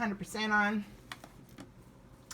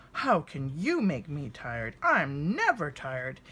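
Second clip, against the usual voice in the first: grandfather bear voice. Acted. Grandfather boasting.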